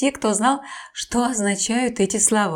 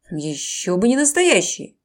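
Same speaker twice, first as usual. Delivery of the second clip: deep bass voice; 3 semitones lower than usual. Acted. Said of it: "сказал крокодил страшным басом".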